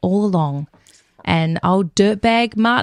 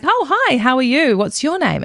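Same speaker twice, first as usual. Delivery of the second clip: smitten widower's greeting; 4 semitones higher than usual. Retold or imitated. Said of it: "And he is like".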